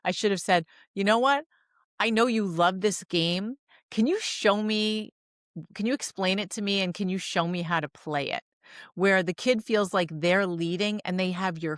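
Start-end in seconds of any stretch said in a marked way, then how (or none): 0.9-8.4 gentle invitation. Retold or imitated. Ideal parent line acted out.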